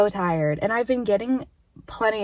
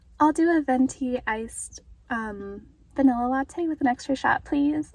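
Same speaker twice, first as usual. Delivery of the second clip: acted, sugary-sweet, polite voice; 4 semitones higher than usual. Retelling placing an order with a deadpan, staring woman, putting on a sweet voice. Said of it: "Like trying to be sweet".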